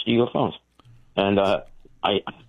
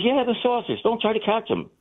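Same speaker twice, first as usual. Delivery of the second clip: lightly voiced sheriff, higher and offhand; a hint of a laid-back lawman; casual sheriff; 13 semitones higher than usual. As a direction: toss it off like a sleepy small-town sheriff. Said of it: "He goes".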